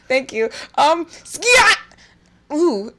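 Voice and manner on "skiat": sudden high, loud squawk; silly yelled skiat. Pretend. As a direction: burst out with a loud nonsense yelp. Sudden silly shouted noise.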